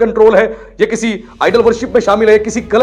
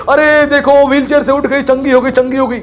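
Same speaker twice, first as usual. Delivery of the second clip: excited cry, a little raised, only half shouted; mock crowd shouting; 3 semitones higher than usual. Crowd hailing a woman out of her wheelchair, mock shouting. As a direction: imitate onlookers calling out a miracle. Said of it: "चिल्लाने लग गए सारे जोर जोर से".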